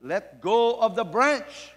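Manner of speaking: loud, slow, calm order; a hint of a booming God telling the man to let go; God's command. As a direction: speak as God giving the command. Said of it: "And God says".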